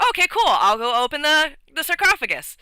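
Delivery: lightly voiced greedy player character. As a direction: chirp it out, can't resist the loot. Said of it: "Rick's character is just like".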